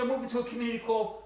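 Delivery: hammed-up proud announcement; proud Rocco. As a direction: savor Bellagio like it's paradise. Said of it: "He said".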